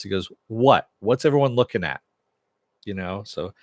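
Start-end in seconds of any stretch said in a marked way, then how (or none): 0.5-2.0 louder, mildly confrontational challenge; retold irritated demand; turning on onlookers. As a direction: challenge the whole crowd, lightly acted. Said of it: "he kinda turns on everyone else".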